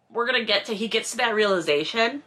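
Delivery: ordinary talk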